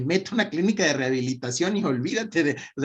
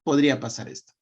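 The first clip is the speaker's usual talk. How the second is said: calm, serene; faster than usual. Shown as a demonstration. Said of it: "desde la calma, desde la serenidad".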